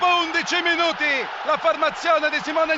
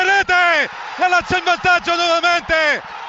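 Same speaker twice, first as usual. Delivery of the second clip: goal shout. Real, not acted. Lazio goal call.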